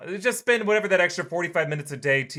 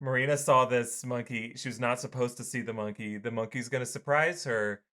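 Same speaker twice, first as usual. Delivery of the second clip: hushed, low pretend conspiracy, trailing softer; mock confidential; 4 semitones lower, 6 dB quieter than usual. Friends' secret talk behind her back.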